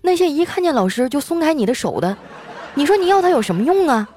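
lightly voiced class teacher giving heartfelt advice; earnest teacher. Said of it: "就听见他语重心长地说".

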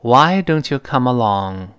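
slow, clear model sentence for students to repeat; teacher modelling a question for repeating; slow model reading. Shown as a demonstration. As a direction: read it out slowly for the class. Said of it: "再来一遍".

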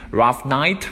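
"Rough night" rising on night like a question; rising question tune. Shown as a demonstration. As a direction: lift the end of "Rough night" to ask. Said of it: "读的时候要读成声调".

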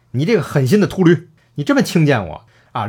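mock-furious reproach, hurled out; acted angry outburst. Disciple cursing the heartless monk before striking him, angry reproach.

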